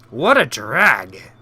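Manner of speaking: slow and unimpressed; slow sarcastic drawl. Acted. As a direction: drawl it out bored. Reading game dialogue aloud.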